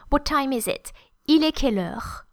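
"Il est quelle heure" stepping down to "heure"; falling question. Shown as a demonstration. Teacher showing question word examples, falling intonation. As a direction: ask it with a falling end. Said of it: "Just falling intonation".

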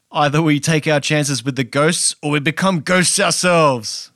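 hint of a Midwestern American accent; lightly imitated Midwestern delivery of a heroic line. Robin replying to his frightened companion, lightly Midwestern accent. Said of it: "In a very Midwestern type way".

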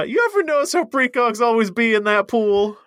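brighter, punchy stand-up delivery; stand-up comic voice. Pretend. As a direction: do an observational comic bit. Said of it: "practice my stand-up, my tight five".

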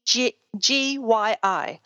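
letters spelled slowly one by one; spelling out slowly. Shown as a demonstration. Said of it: "can you actually spell that for listeners".

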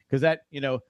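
normal talking voice

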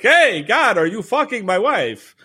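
lightly voiced Tevye talking to God, slow; a hint of Christopher Walken doing Tevye; half-hearted Walken take on Tevye. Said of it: "tried to do a Christopher Walken impression".

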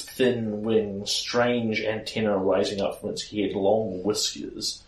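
storyteller unveiling a monster; game master scene setting. Acted. Game master describes the monster's arrival.

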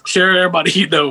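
slightly off announcer read of "you know"; a hint of announcer voice, laughing mid-line; odd announcer delivery. Real, not acted. Host reads the plug and cracks up, accidental announcer voice. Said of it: "why did I say it like that".

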